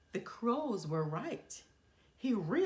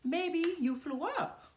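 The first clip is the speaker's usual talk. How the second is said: high, loud, slow teasing call; crying out teasingly; 9 semitones higher, 4 dB louder than usual. A narrator's reading. Crows teasing Timothy from the tree, slow loud call. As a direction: draw it out to mock the mouse. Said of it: "cried the crows".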